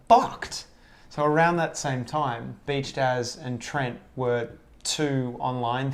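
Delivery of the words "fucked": triumphant shout. Retold or imitated. Triumphant retold exclamation.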